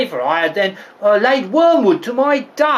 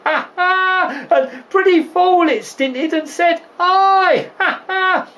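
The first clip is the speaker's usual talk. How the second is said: high-pitched laughing retelling; gleeful cackle between the words; helpless laughter; 8 semitones higher, slower than usual. Acted. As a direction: crack yourself up over the punchline. Nurse cracks up at own story.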